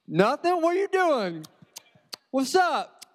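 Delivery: fake innocent kid. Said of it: "And I'm like".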